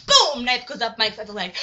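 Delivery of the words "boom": loud, short boom; imitated impact. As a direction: punch out the stab.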